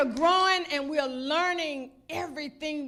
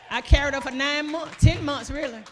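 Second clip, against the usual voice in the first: loud, proud boast to the church; proud mother calling out to the crowd; proud shout; 7 dB louder than usual. Real, not acted. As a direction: shout it out with pride.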